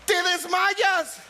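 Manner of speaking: slow punchline. Shown as a demonstration.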